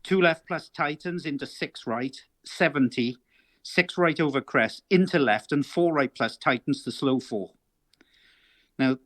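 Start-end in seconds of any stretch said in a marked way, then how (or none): 0.0-7.5 rally co-driver calling pace notes; reading pace notes. Shown as a demonstration. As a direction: read notes like calling a stage. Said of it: "shall I read the top few lines".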